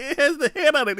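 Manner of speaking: high loud mock explanation; family explaining. Family telling the brother about the head, high. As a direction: spell it out for the kid. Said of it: "they're like".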